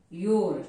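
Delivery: you're set apart, low; you're as one word. Shown as a demonstration. Teacher repeating the contraction for learners, you're as one low word. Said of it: "यू आर का pronounce guys".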